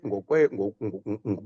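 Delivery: ordinary delivery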